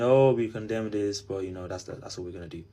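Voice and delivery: mocking official statement. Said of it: "our government releases a speech saying".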